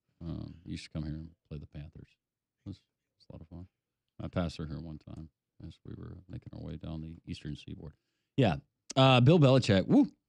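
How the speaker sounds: dull monotone voice. Doing a Bill Belichick impression as the new North Carolina head coach: Bill Belichick impression. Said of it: "That was a really good impression".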